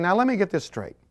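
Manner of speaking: hint of panicky young single; imitating worried singles. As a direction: play the nervous single person. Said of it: "and they're saying".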